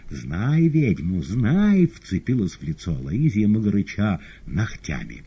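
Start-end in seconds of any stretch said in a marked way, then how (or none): 0.1-1.8 slow, rising witch howl, louder; witch wailing. Acted. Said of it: "завывая". (воя ведьмой, нарастая до крика)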